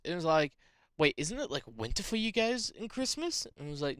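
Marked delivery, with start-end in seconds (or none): 1.0-3.4 retold puzzlement, pitch climbing high; confused. Friend asking about Christmas in the southern hemisphere, confused. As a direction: ask it as a baffled friend, lightly acted. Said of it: "he was so confused".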